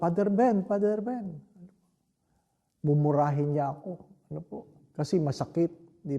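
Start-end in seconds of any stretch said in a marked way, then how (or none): 0.0-1.3 calling out in pain. Retold or imitated. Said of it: "Tapos sabi".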